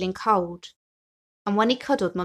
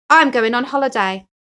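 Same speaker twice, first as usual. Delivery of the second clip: excited announcement; 4 semitones higher, 8 dB louder than usual. Acted. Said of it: "he shouted".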